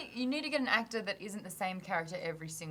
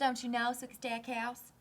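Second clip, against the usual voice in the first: Southern accent attempt; 3 semitones higher, 4 dB quieter than usual. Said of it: "read the books in the Southern accent".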